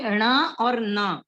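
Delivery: ण with the tongue curled back, then a plain dental न; ण curled back, न with the tongue on the teeth; retroflex ण vs dental न. Shown as a demonstration. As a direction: slowly contrast ण and न. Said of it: "ण यानी बाण वाला न है".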